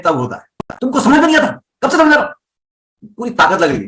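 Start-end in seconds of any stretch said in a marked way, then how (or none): 0.8-3.1 higher, tense scolding without extra volume; pushed, exasperated scolding from the chest; angry, high and strained. Shown as a demonstration. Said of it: "pitch को high रखूंगा और volume को रखूंगा कम".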